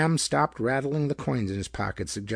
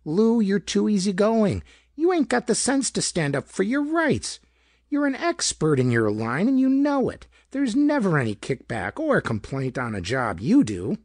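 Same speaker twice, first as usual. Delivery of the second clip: much higher, louder nagging complaint; querulous wife; 9 semitones higher, 5 dB louder than usual. A narrator's reading. Wife berates husband for being too easygoing, querulous. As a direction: rise into a shrill scolding pitch. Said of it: "rose to a querulous pitch".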